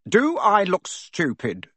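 high, slow sneering snarl. A narrator's reading. Uncle Vernon snarls at Harry, high and slow. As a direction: snarl it at the boy. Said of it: "snarled Uncle Vernon".

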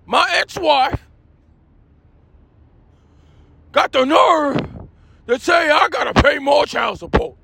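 aggrieved American comic character; Jamal Dean. Acted. Ex-husband griping about child support, comic aggrieved rant. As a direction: rant with emphatic, incredulous complaint. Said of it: "Jamal Dean, are you here?".

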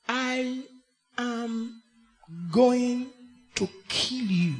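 very soft, lingering, seductive threat; sonorous, seductive. Shown as a demonstration. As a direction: purr the threat like a caress. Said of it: "in a very sonorous and seductive way".

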